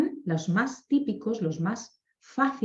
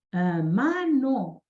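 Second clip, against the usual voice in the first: slow modeling word; much slower than usual. Retold or imitated. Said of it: "Le digo".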